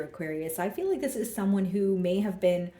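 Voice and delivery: normal talking voice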